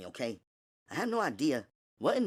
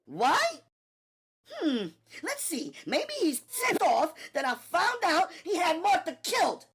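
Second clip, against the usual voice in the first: much higher, quick sarcasm; sarcastic Natalie; 5 dB louder than usual. Acted. Natalie to Gina, sarcastic. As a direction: list the reasons mockingly.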